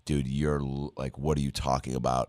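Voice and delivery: muted, mildly baffled aside to himself; self-doubting inner voice. Retold or imitated. Actor doubting himself mid-improv, self-questioning inner voice. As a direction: question yourself under your breath, lightly imitated.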